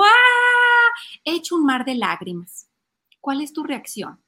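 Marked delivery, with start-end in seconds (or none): 0.0-0.9 loud, high long fake bawl; mock child's wail. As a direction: wail like a child running to mom. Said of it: "viene llorando contigo". (llanto fingido de niño, fuerte y agudo)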